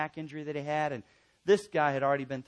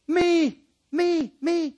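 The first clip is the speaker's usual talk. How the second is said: high, loud ringing cry; shouted emphatic repetition; preaching shout; 11 semitones higher, 9 dB louder, much slower than usual. Real, not acted. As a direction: proclaim it at full force. Preacher exclaiming the scripture's point.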